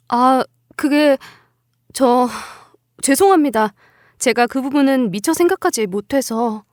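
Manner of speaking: halting, cowed apology; hesitant apology. Acted. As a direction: stammer out a meek excuse. Daughter-in-law apologizes after scolding.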